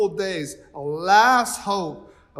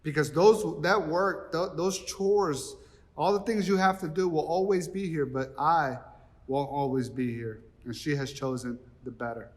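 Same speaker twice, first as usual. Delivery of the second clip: soft, tender correction, fading at the end; Jesus gently answering the busy Martha; gentle Jesus; 3 semitones lower, 4 dB quieter than usual. Retold or imitated. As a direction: kindly set her straight. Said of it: "Jesus looks at Martha and is like".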